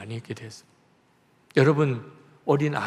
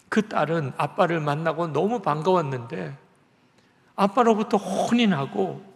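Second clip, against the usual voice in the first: ordinary talk, nothing marked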